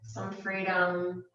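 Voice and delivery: calm, unhurried meditation guidance with long pauses; guided meditation. Real, not acted. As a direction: guide them gently into relaxation, leaving space between phrases. Leads a meditation.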